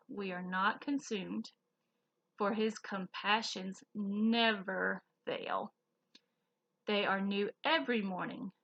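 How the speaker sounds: slow, careful Bible verse reading; scripture reading. Acted. Teacher reading scripture to kids, slow and careful. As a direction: read the verse slowly to the children.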